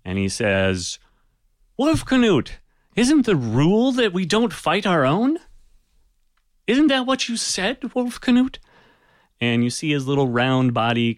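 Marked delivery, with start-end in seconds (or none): 1.8-8.6 much higher small voice calling over a crowd; Haydn cutting through. Acted. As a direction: pipe up high to remind the chieftain of his own rule. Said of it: "Haydn's voice cuts through all of this".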